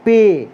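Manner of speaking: पे said as "pay" with a long e vowel; letter name. Shown as a demonstration. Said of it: "Urdu में हम लोग कहते हैं पे".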